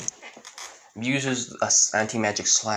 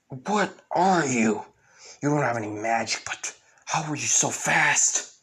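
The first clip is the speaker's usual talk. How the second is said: baffled villain; 3 semitones higher than usual. Retold or imitated. Mud mage to the magicless attacker, baffled. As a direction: demand it in mild shock. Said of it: "and the guy says".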